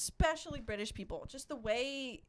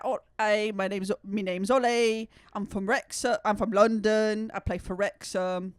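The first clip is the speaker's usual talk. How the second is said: louder mock British self-introduction; imitated British accent; 6 dB louder than usual. Imitating a player introducing himself, louder mock British accent. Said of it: "He's like".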